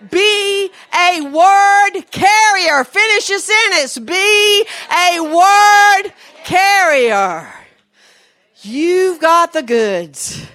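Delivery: slow, loud, high declarations, each word stretched; full-force preaching. Real, not acted. Preacher urging women to carry the word, slow fervent shout. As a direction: charge the congregation, punching every word.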